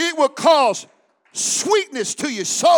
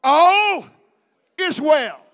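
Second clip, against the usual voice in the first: a louder, firm all is well; lightly voiced faith-filled mother; 4 semitones higher, 6 dB louder, slower than usual. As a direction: declare it calmly. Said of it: "what did this mama say".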